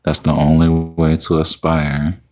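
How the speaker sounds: slow, measured poetry reading; deliberate spoken-word poem with drawn-out line endings; poem recitation. Acted. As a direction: recite it line by line, pausing after each phrase.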